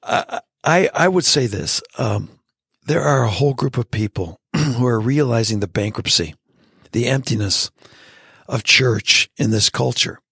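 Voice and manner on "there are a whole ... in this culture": raspy, scratchy throat. Real, not acted. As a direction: speak through a rough throat. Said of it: "excuse my raspy throat".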